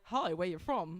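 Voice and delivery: shaky stab at Australian; attempted Australian accent. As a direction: lightly imitate an Australian stranger. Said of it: "That's not Australian".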